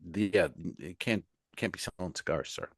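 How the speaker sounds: soft, low, hesitant politeness; very nice. Retold or imitated. Security guard asking cigar seller to stop, very nice. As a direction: imitate a gently apologetic official, voice kept down. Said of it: "they're very nice".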